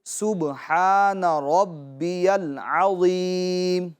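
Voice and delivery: drawn-out, melodic tasbih recitation; slow recitation. Shown as a demonstration. Teacher demonstrating tasbih slowly for children, drawn-out chant. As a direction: recite slowly for the students to copy. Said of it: "پہلے میں پڑھ کے بتاتا ہوں".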